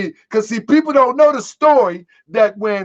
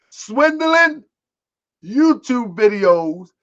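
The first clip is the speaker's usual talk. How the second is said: stretched slowly, word by word; slow sarcastic list item; slow emphatic listing; much slower than usual. Shown as a demonstration. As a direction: drag it out for mockery.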